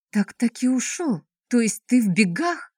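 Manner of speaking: gasping surprise. Acted. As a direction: ask it with a startled gasp. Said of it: "ахнула Елизавета". (испуганное изумление)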